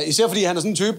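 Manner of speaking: normal talking voice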